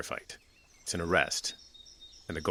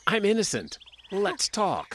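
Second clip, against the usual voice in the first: mock suspect plea; 10 semitones higher, 4 dB louder, slower than usual. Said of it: "I might start by saying".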